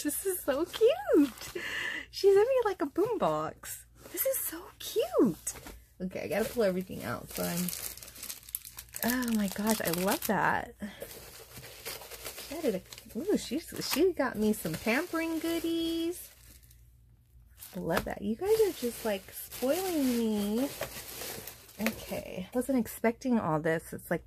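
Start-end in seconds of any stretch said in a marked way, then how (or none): 0.0-5.5 much higher, slow gushing squeal; squealing excitement. Real, not acted. Unboxing a gift from Diana, squealing delight. 12.5-20.7 much higher, delighted gushing. Real, not acted. Thanking viewers for gifts, gushing high. Gushing over pampering goodies.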